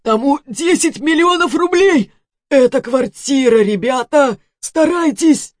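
high, loud bargaining shout; desperate loud offer. Acted. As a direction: bribe them to save him. Dying man offering reward. (отчаянный громкий призыв)

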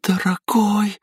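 ordinary delivery, nothing marked

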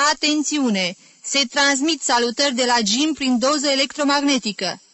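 hammed-up broadcast announcement; radio announcer imitation. A narrator's reading. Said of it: "Jim imită glasul șpicheriței de la postul radiofonic".

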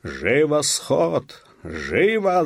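high, loud, drawn-out command; shouted order. A narrator's reading. Police officer summoning the village meeting, shouting. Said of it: "закричал он".

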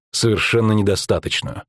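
ordinary delivery

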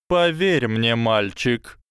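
high, slow lecturing snake voice; slow hypnotic serpent hiss. Acted. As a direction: coil the words around him slowly. Snake reassures boy.

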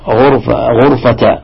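غرفة as "ghurfa, ghurfata"; غرفة with no n at the end; without tanween. Shown as a demonstration. Teacher wondering about Mujahid's reading, no tanween on غرفة, "ghurfata". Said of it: "بدون تنوين".

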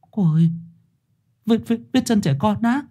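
put-on high, stammering old woman's voice; shocked old woman. A narrator's reading. Bà Thu stunned by the child's footprints. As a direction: stutter out the question in shock.

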